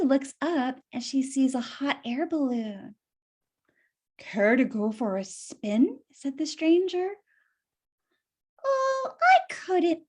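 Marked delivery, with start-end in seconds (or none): 4.2-6.0 smooth fox. Acted. Fox voiced in read story. 8.6-10.0 high, coy refusal; coy Winnie. Acted. Winnie voiced in read story.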